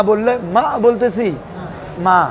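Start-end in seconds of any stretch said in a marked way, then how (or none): 2.1-2.2 "মা" as one smooth open vowel; no glottal catch. Shown as a demonstration. Teacher showing alif has no sound of its own, smooth "মা". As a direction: let "মা" run on without a jolt. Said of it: "আলাদা কোনো উচ্চারণ নাই".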